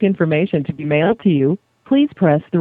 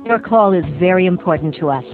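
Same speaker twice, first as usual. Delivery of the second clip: recorded hold message over music; phone menu voice. Acted. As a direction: read it like an upbeat on-hold ad.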